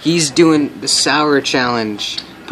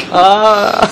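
laughing and coughing; 10 semitones higher, much slower than usual. Real, not acted. Laughing and coughing after sour.

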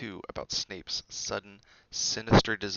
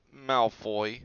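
slightly shaky, upset answer; touch of a wobble; 2 semitones higher, 6 dB louder than usual. A narrator's reading. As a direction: say it a little shakily. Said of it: "said Neville shakily".

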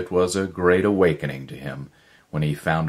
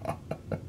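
short quiet unvoiced chuckle; soft chuckle; 12 dB quieter than usual. A narrator's reading. Hidden stranger overhears Miller and chuckles softly. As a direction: chuckle lightly from the shadows. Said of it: "A voice from the bookcases chuckled".

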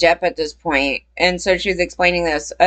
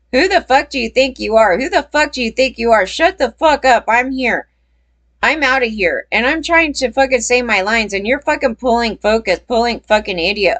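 mock angry chewing-out, pitched up; Johnny Depp tirade; 3 semitones higher than usual. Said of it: "Johnny Depp comes up to me, sticks his finger in my face".

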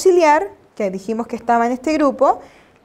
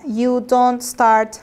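slow example; much slower than usual. Shown as a demonstration. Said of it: "for example".

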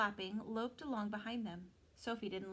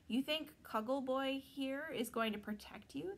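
scoffing; 4 semitones higher than usual. Acted. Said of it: "the pixie scoffed".

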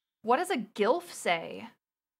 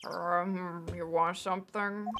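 husky lady; 6 semitones lower, 6 dB quieter, slower than usual. Acted. Voicing the husky lady character.

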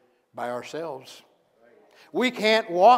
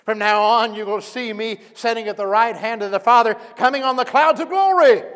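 loud ringing declaration of glory; proclaiming loudly; 6 semitones higher, 9 dB louder than usual. Acted. Jesus declaring his glory to the council, loud. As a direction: proclaim it out, voice rising high.

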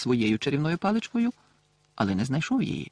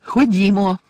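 Ходімо louder and higher, stretched; insistent repeat; 7 semitones higher, 8 dB louder, slower than usual. A narrator's reading. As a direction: call Ходімо again, firmer. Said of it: "повторила Герміона".

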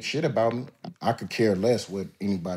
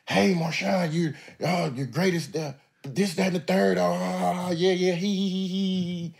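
higher sycophantic gushing voice; mock fan-voice, high and giddy; fawning reporters; 10 semitones higher than usual. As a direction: gush like flatterers sucking up. Mimicking fawning media praise.

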